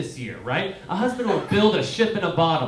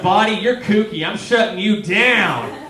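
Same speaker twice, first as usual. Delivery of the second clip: louder, firm mock command; stern brain; 5 semitones higher, 6 dB louder than usual. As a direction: brain laying down the law to the body. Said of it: "And your brain's like".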